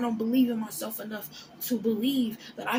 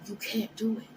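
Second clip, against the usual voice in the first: whisper; 3 dB quieter than usual. Acted. Voicing the doubting mind.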